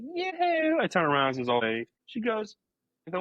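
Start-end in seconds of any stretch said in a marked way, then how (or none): 0.0-0.8 very high, drawn-out falsetto coo; imitated calling out. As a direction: mimic a woman hailing from a room. Repeats the woman's call.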